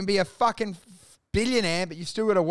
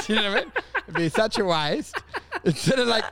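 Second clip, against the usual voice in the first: chuckling through the words; laughing; 2 semitones higher, faster than usual. Real, not acted. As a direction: talk while laughing. Laughing while telling joke.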